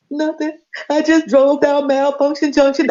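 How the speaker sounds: high mock wail; imitated crying. Telling Roz on the phone, mock crying. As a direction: sob the news out, hammed up. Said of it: "I'm crying on the phone".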